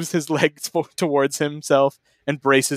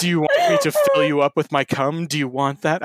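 laughing while reading; 2 semitones higher than usual. Acted. Reading the sex line aloud, laughing.

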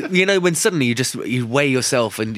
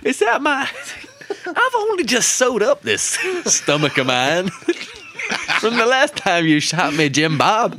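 laughing mock victim; 12 semitones higher than usual. Voicing the shot victim, laughing.

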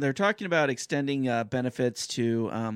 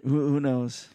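chuckling through the words; laughing; slower than usual. Real, not acted. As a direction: laugh while asking it. Laughing at joke about being rich.

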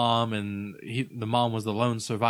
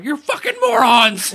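high, loud, laughing insult; squeaky Tucker voice; 12 dB louder than usual. Retold or imitated. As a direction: yell it in a high voice.

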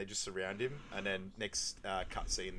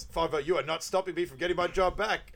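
higher, louder desperate protest; mock Mac outburst; 8 semitones higher, 6 dB louder than usual. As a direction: charge in, yelling indignantly. Voicing Mac's desperate charge.

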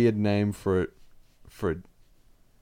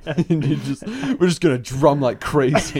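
laughing; 4 semitones higher, 4 dB louder, slower than usual. Real, not acted. Laughing while acting it out.

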